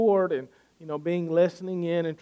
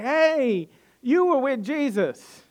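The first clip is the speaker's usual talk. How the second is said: higher-pitched accusing call-out; mock a girl calling someone out in recognition; acted calling out; 9 semitones higher, 4 dB louder, slower than usual. Girl calls out recognizing Peter.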